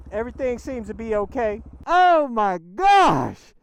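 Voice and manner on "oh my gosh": slow, loud, drawn-out amazement; awed oh my gosh. Real, not acted. Rider stunned by the modded bike's pull, slow loud awe. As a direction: stretch it out in awe.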